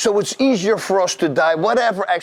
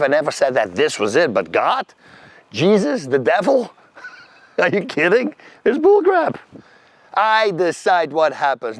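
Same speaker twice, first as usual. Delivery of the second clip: incredulous, mocking skeptic with jumps up in pitch; animated, disbelieving challenge; scoffing former self. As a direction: scoff at belief like a doubter on a rant. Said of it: "that was me".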